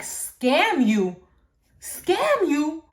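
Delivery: incredulous echo, climbing high and loud; retold disbelief. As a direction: throw it back in mock disbelief. Disbelieving echo of mom's theory.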